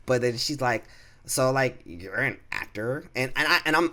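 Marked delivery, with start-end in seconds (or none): 1.2-3.0 mimicking a coworker with a drawn-out upward question; lightly voiced white girl, slow at the end. Coworker asks him about acting, light white girl imitation. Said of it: "I'm making it sound like she's a white girl".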